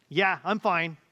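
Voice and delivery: "Yeah, I'm fine" said flatter and clipped, a hint of hiding something; a mildly terse "Yeah, I'm fine" that means the opposite; curt not-fine fine. Pastor voices his wife saying fine while not fine, a touch curt. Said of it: "says something entirely different".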